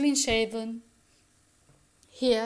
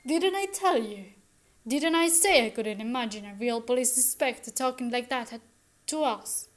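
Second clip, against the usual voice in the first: triumphant. Acted. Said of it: "Missus Burling, triumphantly".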